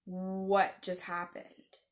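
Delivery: very slow, dazed question; hushed shock, word by word; stunned bewilderment. Retold or imitated. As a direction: draw out each word in disbelief. Stunned after sudden silence.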